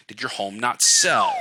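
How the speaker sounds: slow, firm fall on sell; downswing. Shown as a demonstration. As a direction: bring sell down with authority.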